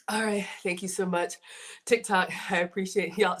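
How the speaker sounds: breathless after eating and talking; out of breath. Real, not acted. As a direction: speak a little winded. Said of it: "See, I'm out of breath".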